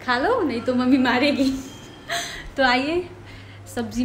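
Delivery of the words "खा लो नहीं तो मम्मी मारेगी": laughing while quoting. Retold or imitated. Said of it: "वो बोल रही है अपने डॉल को".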